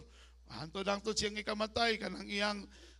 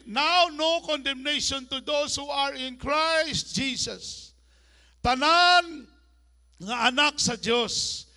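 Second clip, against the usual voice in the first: loud, higher, slow proclamation; full-force preaching; 3 semitones higher, 6 dB louder than usual. Acted. Pastor proclaiming freedom to congregation, loud preaching. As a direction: proclaim it to the whole church.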